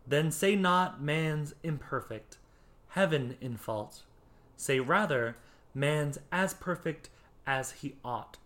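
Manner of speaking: deliberate verse reading with clear pauses; poetry reading. Shown as a demonstration. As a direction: read it out phrase by phrase so it is understood. Rereads couplet so listeners understand.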